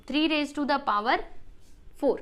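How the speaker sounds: three raise to the power four said slowly, then confirmed; slow demo reading. Shown as a demonstration. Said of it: "इसको हम बोलेंगे कि".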